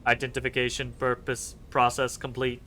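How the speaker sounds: half-hearted, lightly voiced robot; cheapskate robot voice. Machine reporting on crusaders, cheapskate robot voice. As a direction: do a cut-price semi-robot read. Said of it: "cheapskate robot voice".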